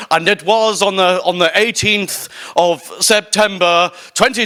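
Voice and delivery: grand, drawn-out proclamation; mock herald. Speaker proclaiming his own arrival on stage, mock herald. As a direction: play at announcing a solemn chronicle.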